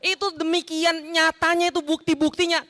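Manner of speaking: usual speaking voice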